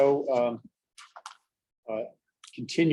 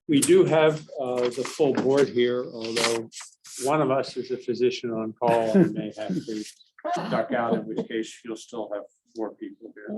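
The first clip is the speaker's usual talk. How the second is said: muffled through a face mask; talking behind a mask, muffled. Real, not acted. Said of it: "sorry, it's the mask".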